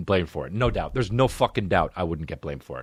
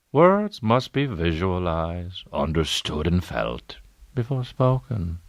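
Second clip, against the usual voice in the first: mock deep narrator; 3 semitones lower, slower than usual. Repeating in a deeper narrator voice.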